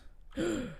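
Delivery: sharp high gasp of delight; excited gasp. Real, not acted. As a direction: gasp in surprise. Reacts to the game box.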